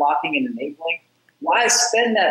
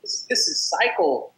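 higher, slowing at the end, fed up; exasperated thought; 5 semitones higher than usual. Retold or imitated. Telling a podcast host his frustration at the debt cycle, in an exasperated voice. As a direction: ask what we're all doing here, fed up.

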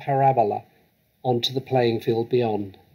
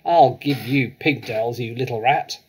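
louder, savage yell; angry yelling; 5 dB louder than usual. Acted. Headmistress swinging a girl by her pigtails, yelling. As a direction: roar it while swinging her round. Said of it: "the Trunchbull was yelling".

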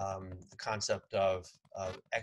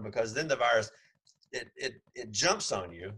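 dry sarcasm about restaurant mask rules; sarcastic. Real, not acted. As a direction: poke fun at the rules. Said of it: "I'm being sarcastic".

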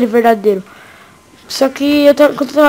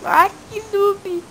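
mocking drawl; 8 semitones higher, 6 dB quieter, much slower than usual. Real, not acted. Mocking teammate after his death.

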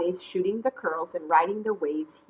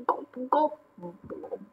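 sinking gulps; 4 semitones higher, 7 dB quieter than usual. Acted. Acting out going underwater.

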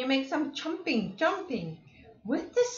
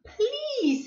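scoffing; 13 semitones higher than usual. Acted. Zebra answers scornfully.

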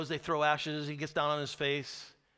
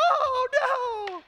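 high, loud, half-laughing "oh no"; hammed-up panic with a laugh; mock panicked scream; 7 dB louder than usual. Preacher imitating fleeing soldiers, mock panic scream. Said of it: "guys screaming at the top of their".

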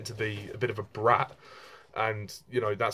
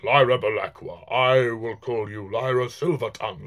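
imitated booming, epic bear voice; Ian McKellen; 5 dB louder than usual. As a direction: boom it out like an epic fantasy warrior. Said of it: "he gave it a nice booming, epic voice".

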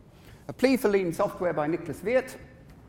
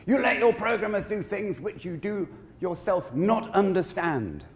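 mildly raised, slow scolding; imitated shouting; 4 semitones higher than usual. Managing director berating project manager, mild imitated shout. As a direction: act out a boss's reprimand, higher and deliberate. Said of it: "He always shouted".

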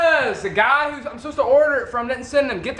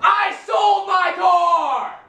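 exasperated shout; 3 semitones higher, much slower than usual. Real, not acted. Son shouting at his parents about the car. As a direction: bellow it in frustration.

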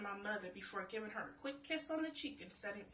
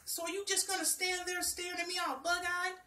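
tree's question; 7 semitones higher, 7 dB louder than usual. Acted. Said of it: "when he asked".

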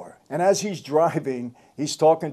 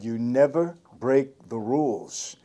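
quiet conviction; slower than usual. Retold or imitated. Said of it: "he said it with such conviction".

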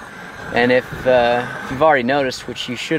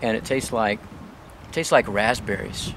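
talking through a mouthful of seeds; words round a stuffed mouth, chewing; mouth full of seeds; 6 dB quieter than usual. Real, not acted. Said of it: "my mouth is full of seeds right now".

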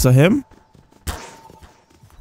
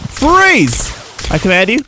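mock commanding shout; 4 semitones higher than usual. Commanding the freeze spell.

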